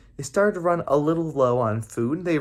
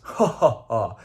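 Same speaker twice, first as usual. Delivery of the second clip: a mild mock giant laugh; giant's laugh; 3 semitones lower, slower than usual. Giant laughs at the smart Trids, mild mock laugh. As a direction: laugh at the little ones, lightly. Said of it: "and he laughs".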